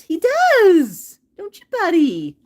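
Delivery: high, bright question to a parrot; high pet talk. Real, not acted. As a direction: cheer the parrot on. Talking to parrot.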